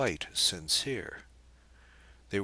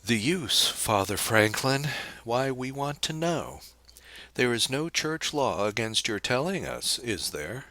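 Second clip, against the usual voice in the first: higher, louder astonished questioning; 6 semitones higher, 4 dB louder than usual. A narrator's reading. Girl answers the priest's protest, in wide-eyed astonishment. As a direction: act openly amazed at being challenged. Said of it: "looked at him in open-eyed astonishment".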